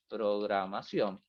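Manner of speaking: slow, drawn-out "programación"; typing aloud. Real, not acted. Teacher typing an input for the class, slowly drawn out. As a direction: stretch the word to typing speed. Saying the word while typing it.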